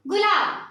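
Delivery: गुलाब with a short, light u; short vowel, light stress. Shown as a demonstration. Teacher showing children the short u in गुलाब, said briefly and lightly. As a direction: pass quickly over the u in गुलाब. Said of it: "उस शब्द पे कम जोर लगाया".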